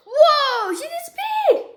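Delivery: high, loud fake wonder; mock amazement. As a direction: gasp it out like a wowed kid. Mock amazement at magic trick.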